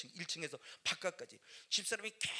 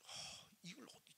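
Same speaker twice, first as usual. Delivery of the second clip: slow, breathless murmur; a man at the edge of breaking; despairing whisper; 14 dB quieter, slower than usual. Real, not acted. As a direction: let the words fall away.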